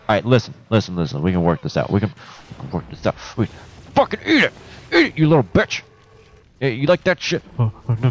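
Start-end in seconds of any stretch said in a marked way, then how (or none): 3.4-8.1 high, loud mocking jeers; gleeful trash talk, pitched way up; taunting yell. Real, not acted. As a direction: crow at the enemy as you beat him. Taunting an enemy while fighting.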